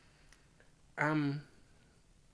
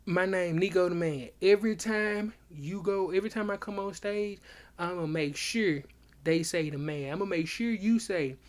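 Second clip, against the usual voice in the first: higher, emphatic retelling of a boast; insistent boast; 4 semitones higher, 5 dB louder than usual. Retold or imitated. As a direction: lay down the law in a retold argument. Acting out his insistent boast in argument.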